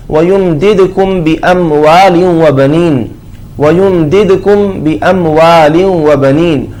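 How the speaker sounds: slow, chanted Arabic verse; Quran recitation. Real, not acted. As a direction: recite the verse slowly and evenly. (धीमी आयत की तिलावत)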